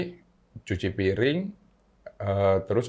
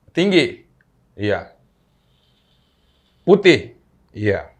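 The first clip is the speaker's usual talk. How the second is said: mother's questions; 5 semitones higher, 6 dB louder than usual. Retold or imitated. Mother questions child about ghost.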